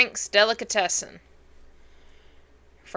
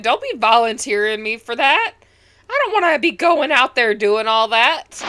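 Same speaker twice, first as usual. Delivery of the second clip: voicing Enid protesting; 3 semitones higher, 5 dB louder than usual. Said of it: "Enid's like".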